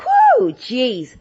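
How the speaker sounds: high-pitched "whoo" of retold relief and alarm; retold fright. Host reliving the frightening tablet moment, mock startled. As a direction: let out a high whoop, then the exclamation. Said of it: "But it was frightening".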